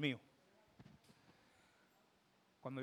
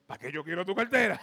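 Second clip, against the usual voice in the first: mock humble; 2 semitones higher, 9 dB louder than usual. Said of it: "Yo bien humilde".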